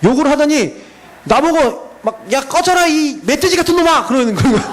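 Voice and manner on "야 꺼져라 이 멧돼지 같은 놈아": mock insult. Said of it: "이 사람이 막 저를 막 욕을 하는 거예요".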